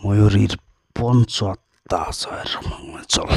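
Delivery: drawn out, slow with long pauses; said slowly. Real, not acted. Healer slows down to hide the lover's name, slow drawn-out chant. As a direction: stretch each word as if hiding the name. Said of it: "তাই আমি আস্তে আস্তে বলছি।".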